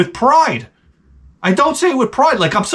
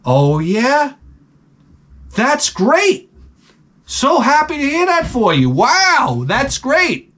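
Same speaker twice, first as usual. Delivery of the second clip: 1 fake polite praise; 4 semitones higher, slower than usual. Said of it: "I'm like".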